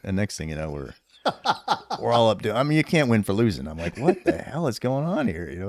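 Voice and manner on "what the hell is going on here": laughing disbelief. Retold or imitated. Laughing retelling confusion.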